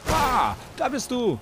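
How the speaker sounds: high, loud, slowed "ah, there you are"; excited spotting. Real, not acted. Player finding the enemy, excited call. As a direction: pounce on the discovery.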